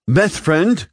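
high, loud chirping alien voice; chirpy alien. A narrator's reading. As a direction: chirp it like an excited creature.

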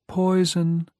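high, hollow ghostly voice; a spectral child warning; eerie warning. A narrator's reading.

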